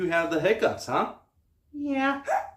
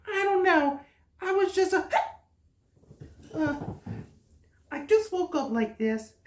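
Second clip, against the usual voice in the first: high-pitched little star voice; squeaky childlike cartoon voice; high cute character voice; 13 semitones higher than usual. High voice of Woohoo.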